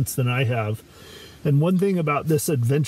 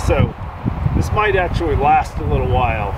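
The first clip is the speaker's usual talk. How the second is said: raised voice against wind and rain; talking over storm; 4 semitones higher, 4 dB louder than usual. Real, not acted. Speaking over storm outdoors.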